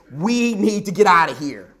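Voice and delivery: urgent, nervous disciple backing out; alarmed plea. Pretend. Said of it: "I would have said to Jesus".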